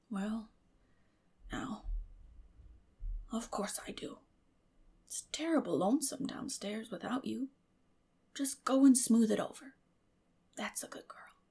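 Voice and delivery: put-on soft, kind old man's whisper; Matthew, hushed. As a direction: quietly encourage her.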